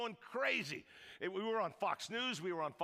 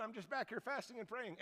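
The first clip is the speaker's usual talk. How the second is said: mock pious; 2 semitones higher, 7 dB quieter than usual. Feigned piety aside.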